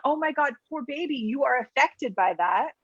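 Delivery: a hint of smothering sympathy; pitying coddle. Shown as a demonstration. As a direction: coo "poor baby" at the child.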